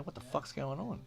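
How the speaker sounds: pitched high, sharp challenge; confronting the blokes round his brother, high and sharp; demanding, surprised. Retold or imitated. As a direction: burst in demanding answers. Walks in on four blokes.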